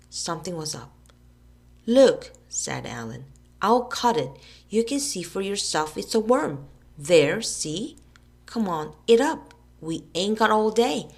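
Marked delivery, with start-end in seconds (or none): 1.9-2.3 loud, high call to look; urging shout. A narrator's reading. Alan urging Billy. 3.6-11.1 louder, higher impatient urging; pushy boy. A narrator's reading. Alan pressing Billy to eat, impatient.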